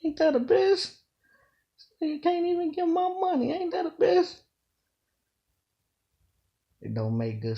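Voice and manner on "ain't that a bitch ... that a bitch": much higher, louder whining squeal; mock a rapper whose voice climbs into a whine; mocking whiny voice. Mocking a rapper's climbing whiny voice, high squeal. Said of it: "how we say that little phrase".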